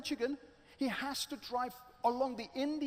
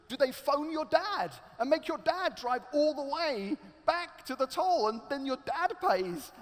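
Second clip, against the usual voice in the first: louder, anxious what-ifs tumbling out; panicky worrying; 5 dB louder than usual. Acted. Driver imagining being arrested at the toll, anxiously. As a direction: fret louder and louder. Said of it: "he gets more and more panicky".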